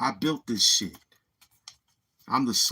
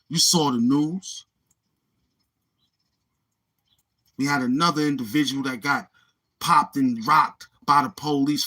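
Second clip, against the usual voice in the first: rising higher and louder line by line, slowing on the punch; building hype rant; 3 semitones higher, 4 dB louder than usual. Real, not acted. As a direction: whip up the crowd until the last line rings out. Hyped rant about New York news.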